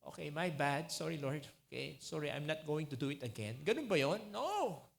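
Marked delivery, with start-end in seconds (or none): 0.1-3.6 careless mock apology. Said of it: "Hindi lang yung".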